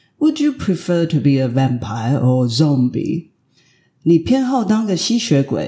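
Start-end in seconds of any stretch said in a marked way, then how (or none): 0.2-3.3 fast, falsely pleasant, put-on British accent. Reading aloud an Oxford admission interview question, British accent with a forced smile. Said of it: "皮笑肉不笑的用英国腔来念一次".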